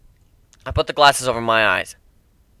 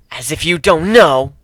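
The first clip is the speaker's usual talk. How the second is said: spat out slowly and louder; 5 dB louder than usual. Acted. Captive girl spitting defiance at the pirate captain. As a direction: spit each word at him. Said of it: "she spat".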